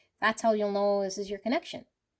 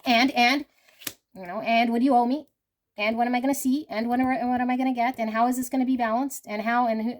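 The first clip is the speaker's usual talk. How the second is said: higher, louder, quick mock of a demanding woman; demanding empress; 3 semitones higher, 4 dB louder, faster than usual. Reader imitating a woman who wants to be repaid, higher and louder. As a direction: rattle off her list of demands, a bit pushy. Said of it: "she's gonna be like".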